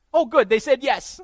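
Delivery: very high, loud gleeful squeal; delighted kid. Retold or imitated. Kid who wore the parents down, delighted.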